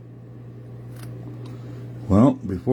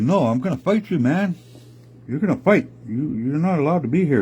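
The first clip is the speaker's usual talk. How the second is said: defiant little bear; 6 semitones higher than usual. Acted. Little bear picks a fight.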